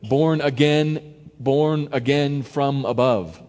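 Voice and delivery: "Born again" said slow with weight on "born"; slow emphatic. Shown as a demonstration. Preacher stressing both meanings, slow and weighty. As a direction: lean on "born" and draw it out. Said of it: "It means both here".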